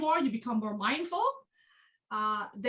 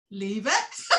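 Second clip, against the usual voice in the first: firm dog command; 2 semitones lower than usual. Retold or imitated. Teacher voicing herself telling her dog, firm command. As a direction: tell the dog off, steady and flat-toned.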